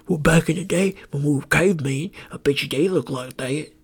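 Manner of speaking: lightly put-on southern accent; a hint of mock southern accent. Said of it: "I always do a southern accent".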